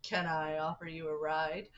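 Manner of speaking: a hint of a polite stranger, rising at the end; halfway Ford voice. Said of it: "I know he doesn't say it like it, but that's how I'm gonna read it".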